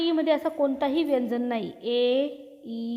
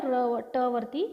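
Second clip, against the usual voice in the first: slow pointing out; much slower than usual. Shown as a demonstration. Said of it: "जोडाक्षर कसं लिहिलं".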